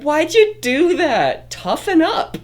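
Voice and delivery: high, slow teasing voice; high hammed-up scolding; mock tough talk.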